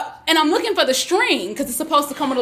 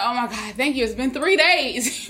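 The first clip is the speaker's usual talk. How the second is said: relieved. Retold or imitated. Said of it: "I'm relieved".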